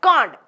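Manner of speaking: Can't as one clipped syllable; contracted can't. Shown as a demonstration. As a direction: shorten cannot to Can't. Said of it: "എന്താ നമ്മൾ pronounce ചെയ്യുക?". (Can't ചുരുക്കി പറയുക)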